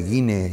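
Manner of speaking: Guiné with the weight landing on the last syllable, né; stress on the final E. Shown as a demonstration. Explaining the club's name to the interviewer, stress on the final é. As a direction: lean on the é of Guiné, gui-NÉ. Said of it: "con acento en la E".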